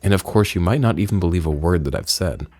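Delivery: lightly voiced grave storyteller; solemn game character. Reads out game character dialogue.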